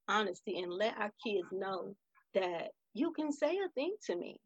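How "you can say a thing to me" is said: put-on higher, gentle voice as if to a child; tender, lifted reassurance; reassuring. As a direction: let them know it's safe to talk.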